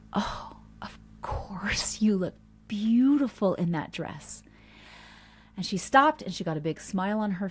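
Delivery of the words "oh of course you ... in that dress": gushing reassurance. Retold or imitated. Mom to daughter trying on a dress, gushing. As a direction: stretch it slowly with adoring admiration.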